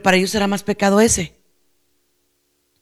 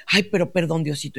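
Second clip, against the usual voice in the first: soft, lower voice, fading away; hushed repentant prayer; 4 semitones lower, 7 dB quieter than usual. Retold or imitated. Praying nun apologizing to God after grumbling, hushed and repentant. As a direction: act out a meek little apology to God. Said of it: "y seguía rezando".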